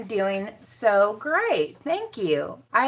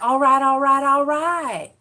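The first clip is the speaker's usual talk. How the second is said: higher, louder drawn "all right"; mock catchphrase; 6 semitones higher, 6 dB louder than usual. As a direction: riff on a catchphrase impression. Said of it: "and I was like".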